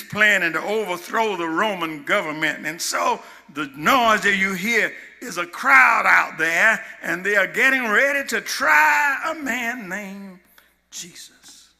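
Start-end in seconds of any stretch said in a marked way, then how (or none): 2.7-9.9 preaching at full force, getting louder; rising shout. Real, not acted. 9.9-11.7 sudden whisper. Real, not acted. Hushed reveal of the name.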